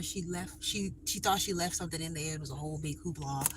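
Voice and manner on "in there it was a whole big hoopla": whisper. Real, not acted. Whispered aside.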